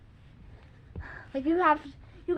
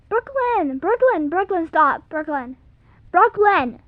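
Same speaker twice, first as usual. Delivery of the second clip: angry shout; 10 dB louder, slower than usual. Real, not acted. Yelling at sister to stop.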